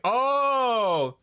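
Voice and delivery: high drawn-out oh of realization; realizing. Retold or imitated. Streamer replaying her moment of realization, high.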